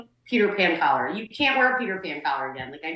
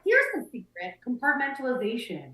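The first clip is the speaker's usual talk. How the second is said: mock wise advice; 3 semitones higher, 4 dB quieter than usual. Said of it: "You're like".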